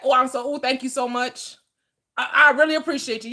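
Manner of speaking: hammed-up grateful gushing; mock gushing thanks. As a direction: gush thanks over a paid grocery bill. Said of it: "I manifested that".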